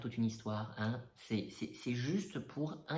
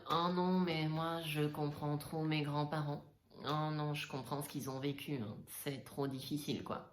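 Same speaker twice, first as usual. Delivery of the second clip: mocking influencer voice; 4 semitones higher than usual. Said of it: "des trucs du style".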